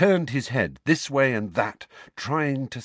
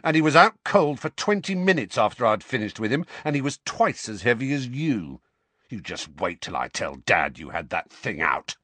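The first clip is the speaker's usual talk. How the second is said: boastful bully. Acted. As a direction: brag like a thug. Dudley boasting angrily.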